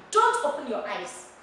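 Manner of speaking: firm order, opening on a hard "don't"; demonstrated command with a falling end. Shown as a demonstration. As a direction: lay it down as an instruction. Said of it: "I command you".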